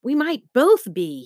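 high, frightened squeak; a scared high squeak. Acted. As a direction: squeak it out in fear. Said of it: "he squeaked".

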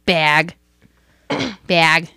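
"Bag" tried out on its own, low; careful pronunciation. Shown as a demonstration. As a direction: test out saying "Bag" carefully. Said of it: "how do you say bag".

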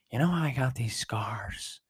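whispered, menacing Joker line; Joker impression. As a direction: lean in close and whisper it like the Joker. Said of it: "doing my Joker impression".

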